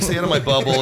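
lightly imitated Aussie accent; a touch of mock Australian. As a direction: try the line in an Australian accent. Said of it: "do an Australian accent".

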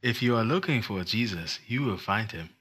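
measured mock-profound pronouncement; weighty, evenly spaced words; solemn moment. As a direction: say it deliberately, for effect. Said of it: "supposed to be a moment".

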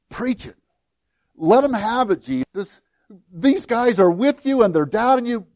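egging Jesus on, smugly, lightly acted; mild mock cheer urging Jesus to scold the doubters; self-righteous. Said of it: "that self-righteous attitude".

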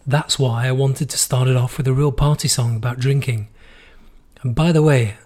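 hoarse, worn-out voice after being sick. Real, not acted. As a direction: talk through a hoarse, tired throat. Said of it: "my vocal cords are completely destroyed".

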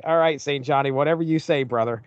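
ordinary talk

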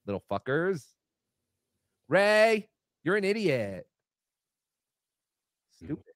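put-on gruff grumpy comic insulting kids; Kevin Brennan impression. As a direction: sneer at the trick-or-treaters. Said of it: "And there is your Kevin Brennan".

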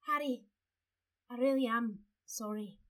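gently voiced apologetic schoolgirl; Cho Chang impression. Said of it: "do Cho Chang".

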